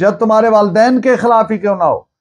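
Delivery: ordinary delivery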